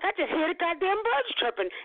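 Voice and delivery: high-pitched disbelief at the birdsong; retold astonishment. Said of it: "and I'm like".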